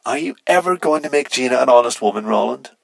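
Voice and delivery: teasing question through a comms filter; electronic message. A narrator's reading. Teammate's electronic message read out.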